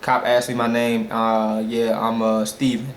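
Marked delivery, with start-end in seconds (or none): 1.1-2.9 low, hesitant fake answer; feigned casualness. Driver giving the cop a false name, hesitant. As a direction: stall slightly in a lowered pitch, as if making it up.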